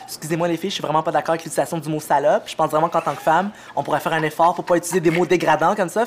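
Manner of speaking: man putting on a prim lady voice; proper, preachy lady voice; woman's voice. Acted. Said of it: "je prends ma voix de femme que j'utilise sur scène".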